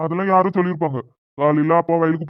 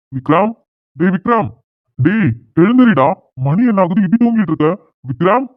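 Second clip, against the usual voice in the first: calling to wake him. Acted. Father waking sleeping son.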